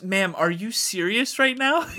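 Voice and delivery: slow, laughing through the question; can barely finish it for laughing; laughing disbelief. Retold or imitated. Retelling the airport line, laughing in disbelief. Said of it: "she goes".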